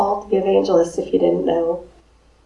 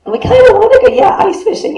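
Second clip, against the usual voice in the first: high, whiny mock reluctance; 12 semitones higher, 4 dB louder, faster than usual. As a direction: pitch it up like a reluctant kid. Mocking congregation's half-hearted answer.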